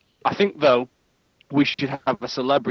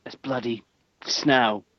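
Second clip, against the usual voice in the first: exaggerated English hard-man accent; generic English accent; 2 semitones lower than usual. Mocking an actor who plays Russian, thick English accent. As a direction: lay on a blokey English accent. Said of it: "my generic English accent is Jason Statham".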